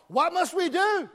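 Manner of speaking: high, loud, desperate cry of the crowd; panicked scream. Retold or imitated. Crowd screaming at Peter in panic, desperate cry. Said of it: "they start screaming out".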